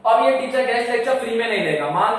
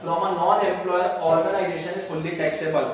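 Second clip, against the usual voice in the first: slow dictation; 2 semitones lower, 3 dB quieter, much slower than usual. Shown as a demonstration. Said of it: "government क्या बोलता है".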